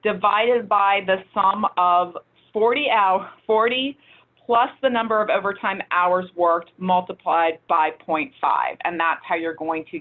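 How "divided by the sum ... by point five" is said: slow, careful formula read-out; measured pace for a complicated explanation; slowly, deliberately. Real, not acted. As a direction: lay out each step of the calculation slowly. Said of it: "so I'll say this slowly".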